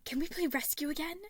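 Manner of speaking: put-on high, loud eager child voice; excited child. A narrator's reading. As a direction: beg to play, bursting with excitement. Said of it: "the small Roman asked excitedly".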